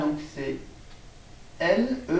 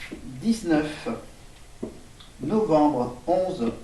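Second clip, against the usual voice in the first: slow dictation; much slower than usual. Shown as a demonstration.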